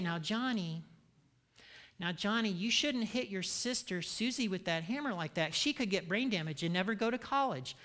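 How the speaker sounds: lightly voiced soft scolding that goes nowhere; mock gentle parent. Parent gently reasoning with a three-year-old, mock soft. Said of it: "No, you, Johnny gets consequences".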